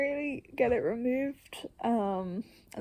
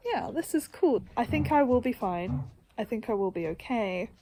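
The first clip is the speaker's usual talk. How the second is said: upbeat reassurance; 3 dB louder than usual. Retold or imitated. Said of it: "moments where I'm like".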